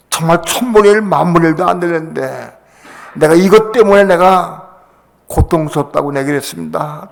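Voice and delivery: a preacher reliving his weeping prayer; tearful prayer. Retold or imitated. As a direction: cry out an apology to God. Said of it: "울면서 내가 그랬어요".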